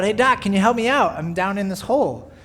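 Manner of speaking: calling out for help from a pit; calling up from the hole. Retold or imitated. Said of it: "the man cries out".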